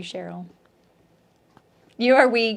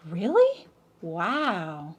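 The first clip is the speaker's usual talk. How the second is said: imitating surprise; much slower than usual. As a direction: act out a taken-in friend's amazement. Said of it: "And they're like".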